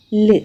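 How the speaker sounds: "l" as the start of love, held with no vowel; "l" as a bare lll; isolated l sound. Shown as a demonstration. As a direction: hold "l" alone. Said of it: "Example, love".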